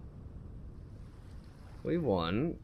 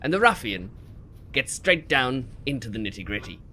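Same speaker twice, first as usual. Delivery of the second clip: lightly voiced wildlife narrator; hint of a nature documentary host. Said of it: "perfect example ... natural habitat".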